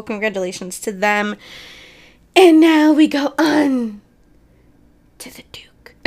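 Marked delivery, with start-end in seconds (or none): 2.4-5.9 mock grand announcement fading to a whisper; dramatic announcer. Vlogger introducing the next news item in a hammed-up announcer voice. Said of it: "Why did I say it like that?".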